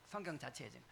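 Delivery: low, quiet restatement to oneself; hushed echo. Real, not acted. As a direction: drop right down as an afterthought. Softer echo of the key point.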